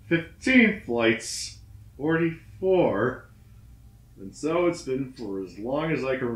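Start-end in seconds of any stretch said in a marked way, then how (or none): 0.1-3.3 higher and louder, very slow and drawn out; despairing cry. Acted. Trapped climber after fifteen more flights, anguished cry. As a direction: cry it out at the end of hope.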